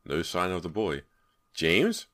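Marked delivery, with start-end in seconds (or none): 1.5-2.1 higher questioning call; searching call, rising at the end. Acted. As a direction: call the name into darkness. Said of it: "Brant called".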